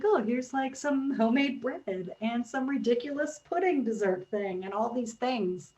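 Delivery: lightly tossed-off retelling; imitated nonchalance. Teammate imitating the host listing homemade dishes, mock nonchalant. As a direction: play it as no big deal. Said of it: "Paul was so nonchalant about it".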